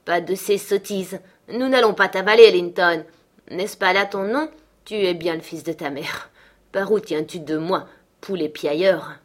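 lightly voiced gruff-tempered father, scolding; a hint of a contemptuous parent; harsh, scornful father. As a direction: berate the boy with bursts of volume. Heathcliff berates his son.

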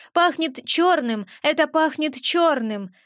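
slow, gloomy little imp; a touch of grim repetition. Acted. Gremlin repeats the warning about the dark witch, gloomy. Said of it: "повторил мелкий мрачно".

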